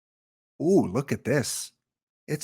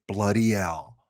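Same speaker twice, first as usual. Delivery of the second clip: lower, badly faked Brummie accent; mock Brummie accent; 4 semitones lower than usual. Streamer repeating a greeting for Birmingham viewers, mock Brummie accent. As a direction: attempt a comical Birmingham accent, pitched down. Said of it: "Brummy accent is".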